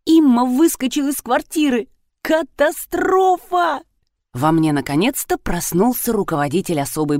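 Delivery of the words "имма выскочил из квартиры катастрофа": high, slow, dismayed cry; horrified at the disaster; alarmed. A narrator's reading. Rina cries out that the cat has escaped, high and dismayed.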